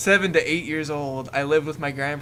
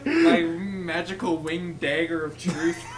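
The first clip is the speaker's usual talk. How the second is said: laughing; much slower than usual. Real, not acted. Mock grand title, laughing.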